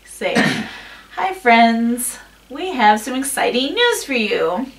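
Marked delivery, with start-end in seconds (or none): 1.2-4.7 stiff, put-on cheery greeting; puppet voice. Shown as a demonstration. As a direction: sound like a hand puppet talking. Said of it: "It was just like a puppet".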